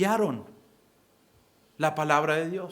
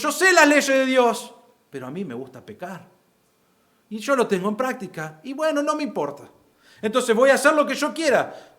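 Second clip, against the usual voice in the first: defiant sinner; 5 semitones higher than usual. Retold or imitated. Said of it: "Vos decís".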